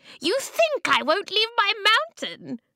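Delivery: shrill, very high, piercing screech. Reading a story aloud, the narrator voices Needlespin screeching. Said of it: "Needlespin screeched".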